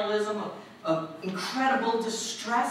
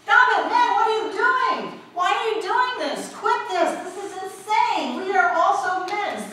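high, loud pleading shouts; crying out; 6 semitones higher, 4 dB louder than usual. Acted. The apostles begging the crowd to stop, high loud pleading shouts. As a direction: yell to stop the crowd, frantic. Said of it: "They're crying out and saying".

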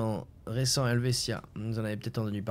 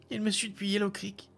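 put-on scared boy; 10 semitones higher than usual. A narrator's reading. Scared boy speaks to old man.

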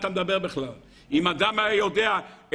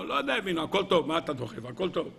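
offhand reply sinking low and soft; careless brush-off; 3 semitones lower, 4 dB quieter, faster than usual. Acted. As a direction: wave it away, voice dropping. Acts out a careless confessor. (בזלזול אגבי, דועך)

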